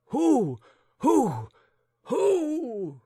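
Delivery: high, loud frantic questions; alarmed cry. Acted. Old gentleman demanding who is there, loud. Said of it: "cried the old gentleman".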